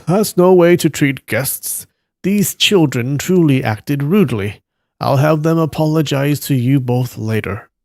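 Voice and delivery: gently acted disapproving elder; mild reproving master. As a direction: apologize to guests for your pupils. Master apologizes for his disciples.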